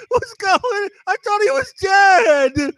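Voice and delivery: high, slow, shouted woman's voice; panicked woman voice. Retold or imitated. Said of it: "And she starts crying".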